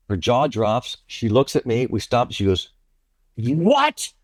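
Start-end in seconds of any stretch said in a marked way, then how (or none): 3.4-4.1 shocked what. Retold or imitated. Kathy stunned by the confession.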